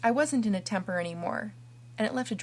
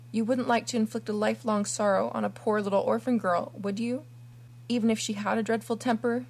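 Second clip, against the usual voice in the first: pleading. Acted. Kneeling orphan begs forgiveness.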